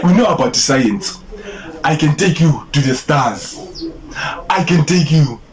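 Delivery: slightly halting Nigerian-accent attempt. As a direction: practise the pickup line in Nigerian English. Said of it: "do it in the Nigerian accent".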